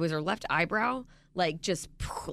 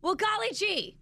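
mock-wholesome gushing; wholesome 1950s kid; 2 semitones higher than usual. Sarcastic praise of unsafe sub.

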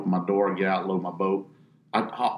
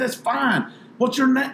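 1 mock nonchalant; 13 semitones higher than usual. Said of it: "I said".

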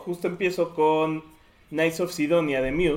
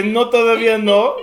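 guard voice; 8 semitones higher, 12 dB louder than usual. Retold or imitated. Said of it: "al guardia que le dice".

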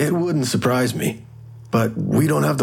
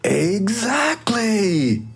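smug exactly; 9 semitones higher, much slower than usual. Acted. Examiner triumphant about Twizzlers.

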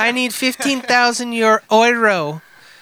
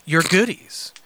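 deliberate storytelling delivery, rising then dropping away; dramatic letter reading; 2 semitones lower than usual. Acted. Reading a crude missed-connection letter to co-hosts, mock-dramatic. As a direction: read it out with mock-serious drama.

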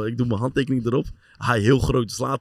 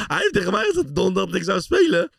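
laughing while telling. Real, not acted. Laughing while retelling worry.

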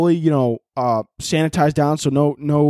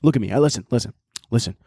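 Gary Vee impression. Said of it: "Gary Vee, like, talking to his tribe, be like".

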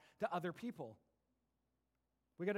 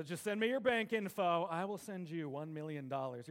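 lightly voiced scammer, a bit louder; scam prince; 3 dB louder than usual. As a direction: sell the fake prince offer. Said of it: "emails from an African prince".

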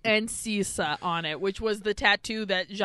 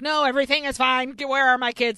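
flustered dad; 5 semitones higher, 8 dB louder, faster than usual. Retold or imitated. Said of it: "And he's like".

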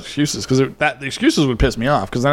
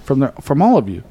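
pipe major voice. Acted. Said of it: "let me get in my pipe major voice".

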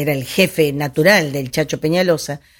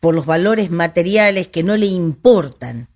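measured recital with pauses between phrases; solemn portrait recitation. Acted. Storyteller reciting the caudillo's portrait, measured declamation. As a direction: recite each trait as a separate declamatory phrase.

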